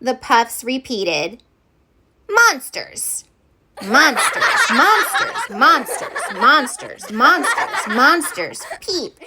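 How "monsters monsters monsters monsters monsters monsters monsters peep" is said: tiny high puff voices, giggling; cutest voices. Acted. Puffs mocking the teacher in cutest high voices. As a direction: squeak it as cute as possible. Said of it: "In their cutest voices".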